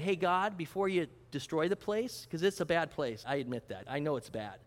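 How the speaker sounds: understated, low-key appeal on a nephew's behalf; imagined humble request. Retold or imitated. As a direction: quietly put a tentative plea to God. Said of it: "He could have easily said that".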